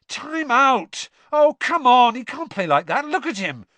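loud, high-pitched protest; exasperated fan's shout; indignant shouting. A narrator's reading. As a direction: yell in outrage at the referee. Ron protests during the match.

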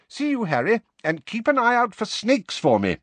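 high-pitched friendly farewell; genial. A narrator's reading. Mister Weasley saying goodbye to Harry, genially. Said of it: "said Mister Weasley genially".

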